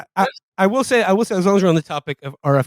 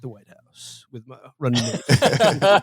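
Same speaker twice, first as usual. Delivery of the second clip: lightly kept deep soul-singer voice; 3 semitones lower than usual. Pretend. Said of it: "like Barry White".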